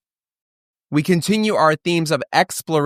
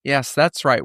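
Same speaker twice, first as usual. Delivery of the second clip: ordinary talk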